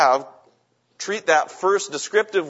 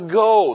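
"Go" punched louder and higher; strong emphasis; 4 semitones higher, 7 dB louder than usual. Retold or imitated. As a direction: hit "Go" hard as a key command. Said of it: "placed a very strong emphasis on that word".

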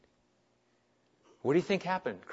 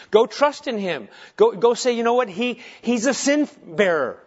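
raised, urgent sermon voice; impassioned preaching; 5 semitones higher, 7 dB louder than usual. Acted. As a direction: exhort the congregation with conviction. Preaches forcefully.

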